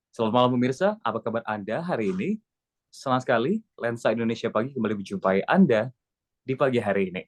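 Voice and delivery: welcoming anchor opening; friendly morning-show opening; greeting. Shown as a demonstration. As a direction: greet the viewers. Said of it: "opening harus menyapa".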